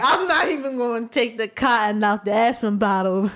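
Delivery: lightly voiced Will Smith on stage; a touch of a showman delivering a punchline; Will Smith telling joke. Will steals the stage, lightly voiced. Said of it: "and he was like".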